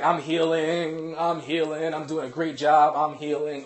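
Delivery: loud, high, drawn-out straining dog voice; eager dog. Retold or imitated. Dog pulling on leash voicing its thoughts, loudly eager. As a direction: play an oblivious dog proudly straining ahead. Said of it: "And the dog is like".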